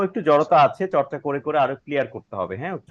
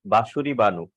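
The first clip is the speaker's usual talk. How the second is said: calling out; slower than usual. Real, not acted. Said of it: "calling student name".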